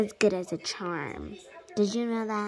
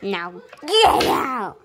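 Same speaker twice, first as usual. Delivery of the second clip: shouting; 5 dB louder than usual. Pretend. Doctor shoos away assistant.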